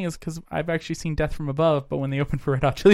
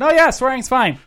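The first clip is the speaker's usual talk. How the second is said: mock imitation; 9 semitones higher, 5 dB louder than usual. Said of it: "I like that you censor yourself".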